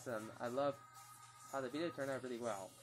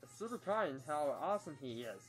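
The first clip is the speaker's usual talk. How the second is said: booming little Martian announcing itself; Marvin the Martian voice; 3 semitones higher than usual. Acted. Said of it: "Duck Dodgers as Marvin the Martian".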